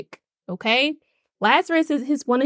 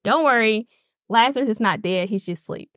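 calm reassurance. Retold or imitated. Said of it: "Jesus looks at them calmly and he says".

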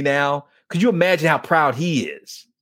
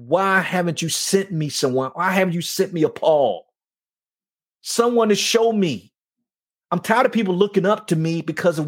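raised, pleading cry to God; pleading prayer; 4 semitones higher than usual. Retold or imitated. Praying aloud, asking God why no mentor came, pleading. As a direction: beg God for a father figure.

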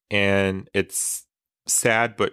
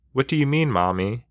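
put-on child voice; 4 semitones higher, faster than usual. Child asks mother, voiced higher.

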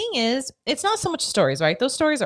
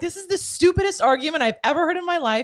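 mock angry husband; 5 semitones higher, faster than usual. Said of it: "he was so mad".

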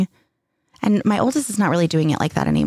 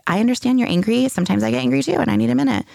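higher-pitched imitation of validating a child; understanding parent; 5 semitones higher than usual. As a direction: let the angry child feel understood. Voicing validating parent to angry child.

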